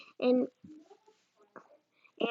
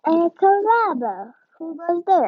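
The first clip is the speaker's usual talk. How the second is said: put-on Spanish accent; 5 semitones higher, 4 dB louder than usual. A narrator's reading. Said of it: "asked Skippy John Jones".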